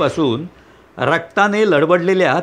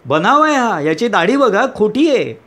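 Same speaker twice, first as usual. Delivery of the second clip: outburst; 4 semitones higher than usual. Acted. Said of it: "न राहून तुम्ही ओरडता".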